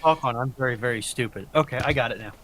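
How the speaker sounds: normal talking voice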